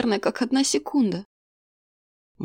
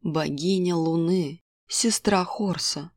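fortune teller; 2 semitones lower than usual. Acted. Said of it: "поведала Карна".

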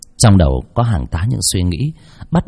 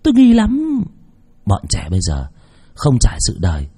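put-on gossiping old man.

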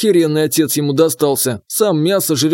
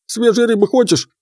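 high gurgling frog voice; croaky watery creature; gurgling alien voice; 7 semitones higher than usual. Acted. Frog spirit speaks.

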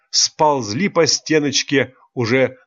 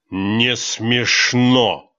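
cold; much slower than usual. Acted. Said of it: "холодно произнесла".

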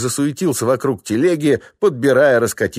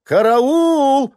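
shrieking high and loud; piercing peasant-woman shriek; frantic yell; 5 dB louder than usual. Acted. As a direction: scream it like your cart just tipped over. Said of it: "заорала истошным голосом баба".

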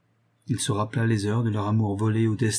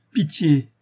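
higher imploring cry; pleading; 5 semitones higher, 4 dB louder than usual. A narrator's reading. Lover on his knees before her, pleading. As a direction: beg for mercy, pitched up.

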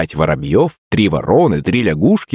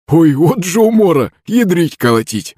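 put-on laughing old man; 11 semitones higher than usual.

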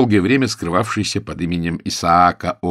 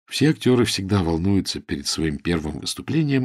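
ordinary delivery

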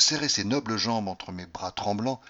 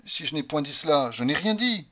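higher, louder solemn statement; firm declaration; 6 semitones higher, 5 dB louder than usual. Acted. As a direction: declare it with conviction. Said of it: "déclara-t-elle". (déclaration ferme, plus haute)

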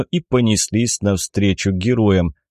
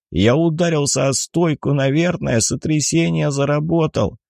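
raised pitch, mildly emphatic; dazed man speaking up; loud dazed speech; 6 semitones higher than usual. A narrator's reading. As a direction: explain it high, as if hard of hearing. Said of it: "громко произнёс он".

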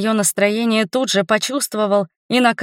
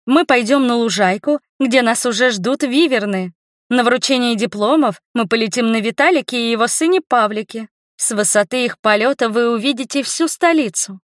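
upbeat tour-guide announcer; 3 semitones higher than usual. Acted. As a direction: present it like a TV host. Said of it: "Голосом диктора заговорила я". (голос диктора)

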